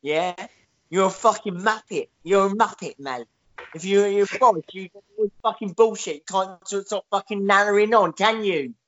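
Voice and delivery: a hint of a cockney hard man mouthing off; Danny Dyer impression. Danny Dyer lightly voiced scolding Boris on the prank show. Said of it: "Danny Dyer's like".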